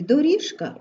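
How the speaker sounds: "доріжка" with ж kept voiced before к. Shown as a demonstration. Teacher pointing out ж in доріжка, voiced zh. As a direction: keep the zh buzzing in "доріжка". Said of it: "вимовляємо дзвінко".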